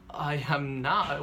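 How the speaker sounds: "I am not" drawn out slowly, word by word; slow, insistent weight on each word of "I am not"; emphatic denial. Retold or imitated. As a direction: stretch "I am not" in firm retold protest. Retold insistent denial to mom.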